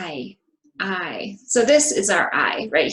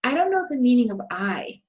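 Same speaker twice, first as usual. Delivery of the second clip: KNOW, MEANING and I emphasized, the small words quick; statement intonation; 2 semitones higher, faster than usual. Shown as a demonstration. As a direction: model the sentence clearly, falling at the end on I. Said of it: "pay attention to the intonation".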